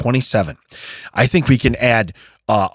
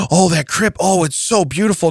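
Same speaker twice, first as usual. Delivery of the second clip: mock gushing; 5 semitones higher than usual. Mimics gushing visitors admiring crib.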